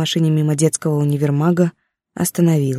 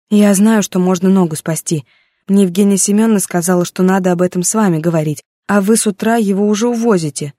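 desperate insistence; 3 semitones higher than usual. Acted. Pleading angrily with the doctor.

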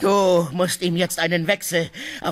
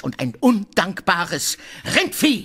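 slow, higher abusive jab; insulting; 6 semitones higher, slower than usual. Acted. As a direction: spit out the insult slowly. Insult in quarrel. (langsam, beleidigend)

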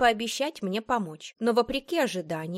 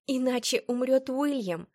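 higher-pitched desperate exclamation; exclaiming; 6 semitones higher than usual. A narrator's reading. Florence defending her choice to Patrick, exclaiming. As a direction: cry it out in protest. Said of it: "воскликнула я".

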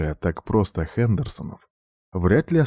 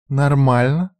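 high, louder incredulous echo; indignant question; 7 semitones higher, 5 dB louder, slower than usual. A narrator's reading. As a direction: throw his word back at him. Сестра переспрашивает в слезах. (возмущённо переспросить)

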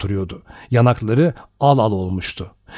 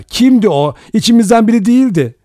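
much higher, louder and fast; frantic cry; 10 semitones higher, 5 dB louder than usual. A narrator's reading. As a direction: rush the words out in panic. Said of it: "diye haykırdı Vera". (telaşla haykırış)

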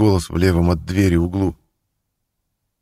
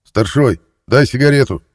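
louder, higher demanding yell; demanding shout; 7 semitones higher, 6 dB louder than usual. A narrator's reading. Thief shouting through the door at guard, demanding. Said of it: "требовательно закричал Воскрес".

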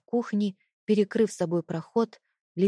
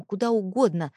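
ordinary delivery, nothing marked

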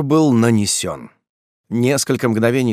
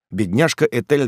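ordinary talk

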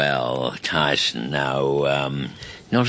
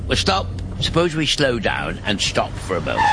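alarmed instructor; 3 semitones higher than usual. Acted. Grandad teaching grandson to drive, alarmed. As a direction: panic but stay polite. Panicked driving lesson.

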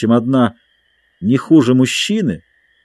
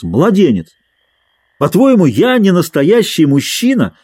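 indignant challenge; 8 semitones higher, 4 dB louder than usual. Acted. Dick challenges Matcham to fight.

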